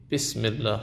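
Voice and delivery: بسم الله with a short "i" in the first syllable, "bis"; short i vowel. Shown as a demonstration. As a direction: say بسم الله starting on a brief Arabic "bi".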